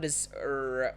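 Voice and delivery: R held like the English "er"; tongue curled back on the "r"; retroflex R. Shown as a demonstration. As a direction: say the "r" as in English "door". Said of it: "this retroflex sound".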